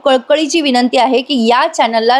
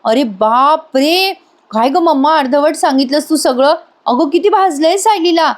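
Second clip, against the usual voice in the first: higher, anxious mock calling; worried calling out; 5 semitones higher than usual. Husband rushes home calling his burnt wife, mildly alarmed. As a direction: call out for your wife in a panic. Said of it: "तेवढ्यात अर्जुन येतो ओरडत".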